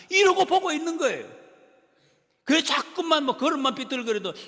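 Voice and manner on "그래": ordinary delivery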